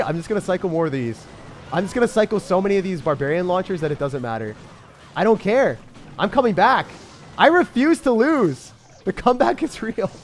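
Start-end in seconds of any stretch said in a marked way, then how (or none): 5.1-10.1 loud, high defiant declaration; raised-voice fighting spirit; defiant rallying. Real, not acted. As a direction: refuse defeat at full voice. Rallying himself for a comeback.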